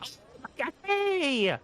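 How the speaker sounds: whispered frightened hi to the alien; scared whisper greeting. Retold or imitated. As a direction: greet the monster in a terrified hush. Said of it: "I was like".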